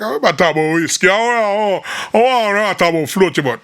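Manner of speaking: mock babble imitating others; mocking imitation. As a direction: rattle it off as a send-up. Mimics others reacting to song topics.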